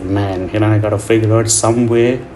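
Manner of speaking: sniffly, blocked-up nose; stuffy nose. Real, not acted. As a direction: speak like you have a cold. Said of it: "I'm sorry for my sniffling".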